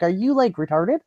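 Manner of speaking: high, incredulous jab; re-enacted fed-up disbelief; retold losing it. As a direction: throw it out as an exasperated question, starting high. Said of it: "and I lose my shit".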